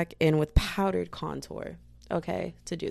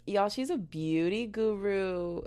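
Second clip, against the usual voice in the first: mock beauty guru; 3 semitones higher, slower than usual. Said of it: "mock influencer voice".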